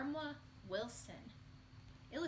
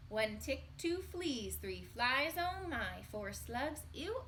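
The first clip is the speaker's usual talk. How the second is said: put-on reading to children. Teacher reading the refrain aloud to children, singsong. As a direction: count them off brightly for the kids.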